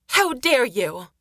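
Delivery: put-on high, slow outraged young woman; indignant. Caitlin insulted by the sailor's offer, indignant. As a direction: draw it out in high-pitched affront.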